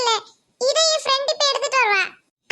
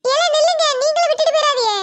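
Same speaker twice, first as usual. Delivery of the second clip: loud call after leaving friends; 4 dB louder than usual. Acted. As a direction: shout after them to wait. Calling friends to stop. (நண்பர்களை நிறுத்த உரக்க அழைப்பு)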